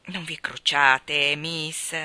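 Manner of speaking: put-on calm the crying girl gently; consoling. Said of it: "disse Luke per consolarla". (Luke consola Maggie, lento e pacato)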